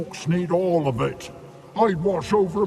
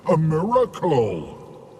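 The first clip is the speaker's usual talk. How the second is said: imitating peasant. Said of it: "he called".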